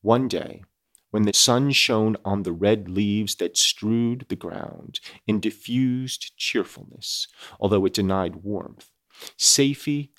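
measured audiobook reading with weight on key phrases; story narration. A narrator's reading. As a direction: read it out as a classic novel, deliberately. Reads the novel aloud.

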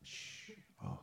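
sharp whispered bickering; whisper yelling. Pretend. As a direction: hiss "shut up" under breath. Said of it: "Why are we whispering?".

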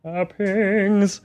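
"Toppings" with an American vowel; American accent. Pretend. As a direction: say "Toppings" as an American would, flat. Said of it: "talking like this now".

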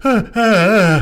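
loud monster grunts. Retold or imitated.

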